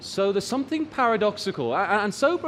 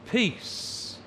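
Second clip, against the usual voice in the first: breathy whispered word; 2 semitones higher, 5 dB quieter than usual. Real, not acted. Reading Jesus' words of peace.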